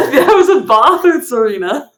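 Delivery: amused, laughing reminder. Real, not acted. Game master reminding players of the bath, laughing. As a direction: say it through a laugh.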